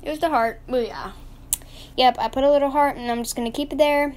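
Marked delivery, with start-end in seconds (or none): 2.0-4.1 talking while chewing gum; words round a wad of gum. Real, not acted. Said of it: "I'm chewing gum".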